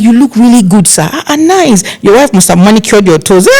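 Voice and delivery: high, teasing flattery; flattering. Retold or imitated. Planner teasing and flattering the uncle, high voice. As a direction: flatter with a wink. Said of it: "So I'm like".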